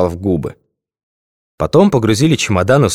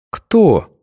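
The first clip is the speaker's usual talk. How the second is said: drowsy, higher sleepy question; 10 semitones higher than usual. A narrator's reading. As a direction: ask it half asleep. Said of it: "сонным голосом поинтересовалась".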